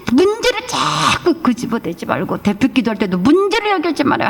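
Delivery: usual speaking voice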